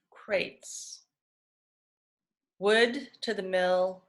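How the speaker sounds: measured recital with falling line endings; poetry reading. Acted. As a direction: read it as verse, pausing after each phrase. Reads further poems aloud.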